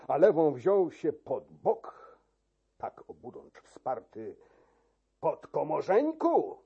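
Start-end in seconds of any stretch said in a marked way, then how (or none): 5.2-6.6 sharp raised call; mocking shout. Key-keeper retorting to the chamberlain, mocking shout. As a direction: throw the title back at him. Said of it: "krzyknął".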